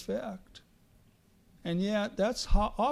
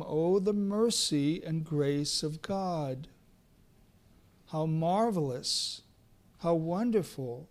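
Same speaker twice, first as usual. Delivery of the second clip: low, understated awe; exclaimed wonder; 3 semitones lower, 4 dB quieter than usual. Acted. Preacher marvels at God's mercy and grace, understated exclamation. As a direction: marvel softly at mercy, pitched down. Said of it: "And I exclaim".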